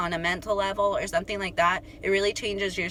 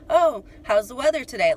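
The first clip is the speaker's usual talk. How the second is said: mock small talk; 4 semitones higher, 5 dB louder than usual. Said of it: "He doesn't like, you know".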